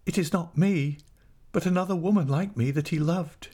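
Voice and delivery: high, forlorn voice; understated wounded helplessness; helpless. A narrator's reading. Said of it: "she asked helplessly".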